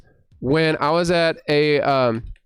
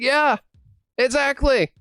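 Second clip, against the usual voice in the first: eager confirmation; 6 semitones higher than usual. Retold or imitated. Voices the kid's eager confirmation.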